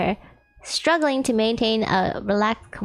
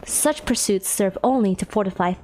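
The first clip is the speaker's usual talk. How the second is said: low, formal, grave voice; low-pitched dignified immortal; Phoenix, solemn ancient cultivator; 4 semitones lower than usual. Acted. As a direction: explain loftily in a deep archaic manner.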